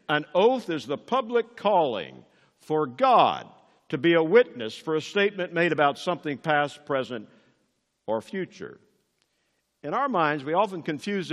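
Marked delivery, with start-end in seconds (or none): 0.1-8.8 re-read with weighty pauses, easing off on "or future"; deliberate re-reading. Real, not acted. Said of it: "Let me read that again".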